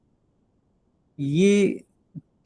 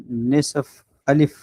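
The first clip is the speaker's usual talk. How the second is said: slow half alif; much slower than usual. Shown as a demonstration. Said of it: "ہم نے اس کے ذہن میں یہ ڈالنا ہوگا".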